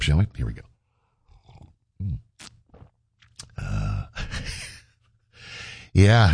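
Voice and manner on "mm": coffee slurp. Real, not acted. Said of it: "Let's do the morning slurp".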